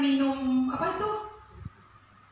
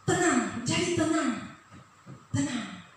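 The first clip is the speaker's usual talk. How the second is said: calming fade; 4 dB quieter, slower than usual. Acted. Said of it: "pastor soothing congregation".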